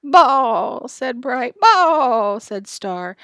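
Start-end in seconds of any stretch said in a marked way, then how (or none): 0.0-0.9 loud, higher, drawn-out bleat; stretched animal cry; bawling calf. A narrator's reading. Calf bellows. 1.6-2.4 loud, higher, drawn-out bleat; stretched animal cry; bawling calf. A narrator's reading. Calf bellows.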